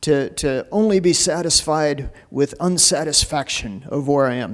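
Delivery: lightly attempted English accent. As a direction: try a rough English accent. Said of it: "That's my English accent".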